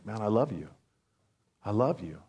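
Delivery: very soft, low murmur; God. Acted. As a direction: say it hushed and low, intimately. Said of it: "things quite constantly, saying".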